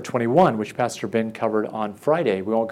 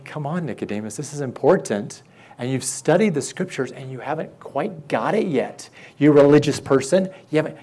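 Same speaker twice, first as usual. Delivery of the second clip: Jesus gently urging Nicodemus to understand; earnest urging; 2 semitones higher than usual. Shown as a demonstration. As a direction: coax him kindly but firmly. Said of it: "But he's saying".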